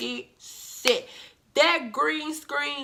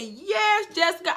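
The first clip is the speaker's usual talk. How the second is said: excited cheer; 6 semitones higher than usual. Retold or imitated. Cheering on a pregnant castmate.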